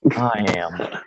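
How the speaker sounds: hushed, voiceless reply; whispered answer. Acted. Man answers the monster question to Charon, whispering. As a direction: whisper it to the figure. Character's answer to the dark figure.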